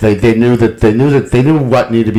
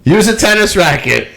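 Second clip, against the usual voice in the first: mock taunt rising in pitch; heckling fan; 6 semitones higher than usual. The fan repeats his taunt to the player, pitched higher. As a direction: heckle pushed higher, pressing harder. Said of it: "what the fan was saying to him".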